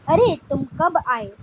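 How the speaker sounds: slow, demonstrated surprised question; mild surprise. Shown as a demonstration. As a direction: act out mild astonishment for a class. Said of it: "क्योंकि आश्चर्य है ये कोई".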